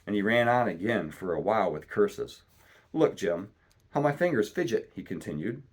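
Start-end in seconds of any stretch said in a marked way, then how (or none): 2.9-4.9 pleading. A narrator's reading. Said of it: "in a pleading tone".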